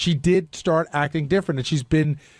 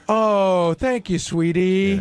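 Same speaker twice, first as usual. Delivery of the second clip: slow, syrupy imitation of a sincere coworker; mock serious talk voice; 2 semitones higher, much slower than usual. Cohost mocking Sal's reply to Robin, slow syrupy mock voice. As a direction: lay it on thick, slowly stretching sweetie. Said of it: "serious talk voice".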